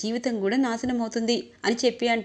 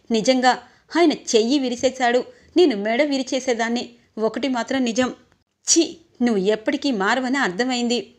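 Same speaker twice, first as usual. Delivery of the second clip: raised voice, scolding her brother hard; angry scolding. Acted. Sister scolding her thieving younger brother, raised angry voice. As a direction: tear into him for the theft.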